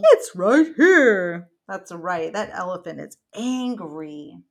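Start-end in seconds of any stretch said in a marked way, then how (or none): 0.0-1.5 loud, slow, laughing storybook line; a big amused read-aloud line. Acted. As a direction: laugh your way through it. Elephant line, mom laughing loudly.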